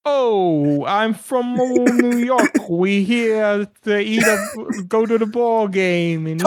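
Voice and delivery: high, slow, hammed-up New York accent; exaggerated New York accent. Host mocking the episode's accent work, hammed-up New York accent. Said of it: "the insane accent work being done".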